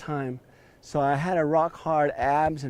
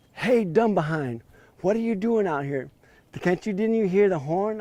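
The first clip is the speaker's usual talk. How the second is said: a higher, teasing rebuke from the club owner; mock scolding owner; 5 semitones higher than usual. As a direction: scold him like a fool caught in a storm. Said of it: "calling me all kinds of names".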